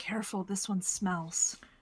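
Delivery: stage whisper spoken as an aside. Playing a character who warns another character about a stranger's smell: whispering in character. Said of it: "Riz is gonna whisper in Wallace's ear".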